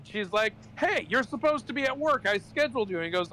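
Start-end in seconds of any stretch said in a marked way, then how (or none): 0.8-3.0 mock angry manager. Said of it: "she's, like, mad".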